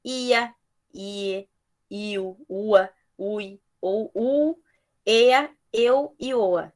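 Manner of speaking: each vowel pair drawn out slowly; patient teacher reading vowel pairs; slow listing demo. Shown as a demonstration. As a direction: spell the sounds out slowly for the class. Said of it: "podemos ter nove tipos de ditongos diferentes".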